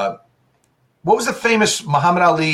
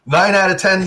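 mock toothpaste ad; 5 semitones higher than usual. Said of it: "Is it the Colgate commercial?".

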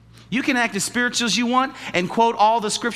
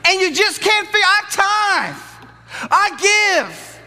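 mock puzzled believer; 13 semitones higher, 5 dB louder, much slower than usual. Mocking puzzled giver.

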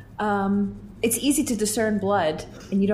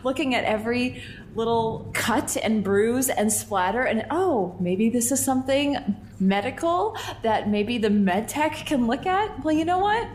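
annoyed; 4 semitones higher than usual. Acted. Annoyed character complaint.

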